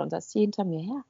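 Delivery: usual speaking voice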